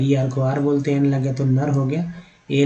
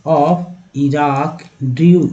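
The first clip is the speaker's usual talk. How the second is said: slow reading drill; 5 dB louder, much slower than usual. Shown as a demonstration. Teacher showing how drew is read, very slow. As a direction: stretch Iraq drew out very slowly. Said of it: "ई डब्ल्यू को यू बोलते हैं".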